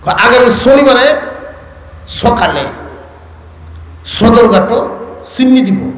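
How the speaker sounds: put-on Old Dhaka speech with s for every sh; Old Dhaka accent. Shown as a demonstration. Preacher imitates Sadarghat locals, Old Dhaka accent. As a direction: mimic Old Dhaka, word by word with s sounds. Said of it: "স উচ্চারণ করে".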